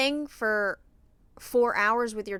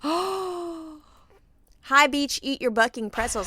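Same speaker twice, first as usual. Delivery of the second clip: cheeky kid repeating a fake curse; repeating the fake curse to mom; imitating her daughter; 4 semitones higher, slower than usual. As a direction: say it like a proud little kid. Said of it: "she goes".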